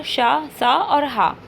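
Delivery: "शा, सा और हा" slowly sounded out, each sound held apart; slow sound demo. Shown as a demonstration. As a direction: spell out "शा, सा और हा" slowly for the class. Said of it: "हमारा शा".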